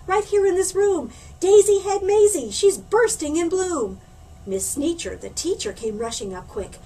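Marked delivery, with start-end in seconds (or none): 0.1-4.0 high, loud schoolboy shouting to the class; loud excited boy's shout; excited cry. Acted. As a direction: blurt it out for everyone to hear. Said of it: "cried Butch".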